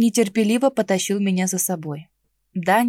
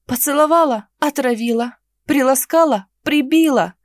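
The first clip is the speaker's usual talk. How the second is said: возмущённо; 5 semitones higher, 5 dB louder than usual. Acted. Возмущённое перечисление бед.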